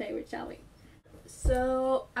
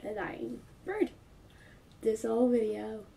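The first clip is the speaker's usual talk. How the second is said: stuffy sick voice; talking through a cold; head cold; 3 semitones lower than usual. Real, not acted. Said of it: "I'm sorry I have a cold, and I'm gonna sound like a dying bird".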